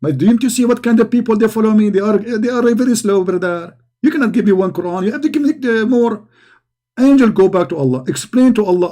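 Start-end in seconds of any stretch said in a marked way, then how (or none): 0.0-6.3 mock exasperated complaint to a messenger; lightly acted indignant haggling, rising in pitch; Muhammad. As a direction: complain like a fed-up prophet in a comic retelling. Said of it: "And then Muhammad, he says".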